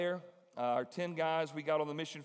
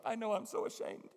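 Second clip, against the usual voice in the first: high mock shame; 5 semitones higher than usual. Voices Amy.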